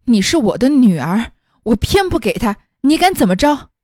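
a mother scolds her daughter through tears, defiant; crying and scolding. Acted. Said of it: "便哭着骂着说".

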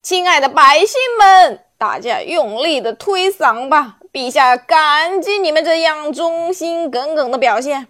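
loud, affected speechifying; guard captain makes a pompous speech to the crowd. Acted. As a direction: puff yourself up and orate. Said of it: "装腔作势地发表演讲".

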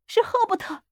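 put-on very high, shrill old woman's cry; shrill scream. A narrator's reading. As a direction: shriek it in frantic recognition. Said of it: "尖声叫喊". (尖声叫喊)

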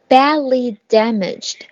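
Badly damaged spoken slowly and clearly; slow model phrase. Shown as a demonstration. Teacher modelling the phrase slowly for repetition. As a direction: give Badly damaged a slow, careful read.

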